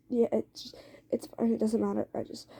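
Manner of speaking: halting, broken-off reassurance fading away; stumbling over words. Acted. Listener plays down being hit to Eddie, stumbling. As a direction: falter through acted excuses, restarting and trailing off. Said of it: "kind of stumbling over your words".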